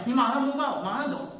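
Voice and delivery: 学丈夫大声赶太太走; 高声催促的命令口气; 赶人走. Retold or imitated. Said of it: "就跟他太太讲". (模仿丈夫大声命令太太马上走)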